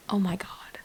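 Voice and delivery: soft unvoiced whisper, overwhelmed; hushed shocked aside; stunned whisper. Real, not acted. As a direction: breathe it out in disbelief. Stunned whisper after reading.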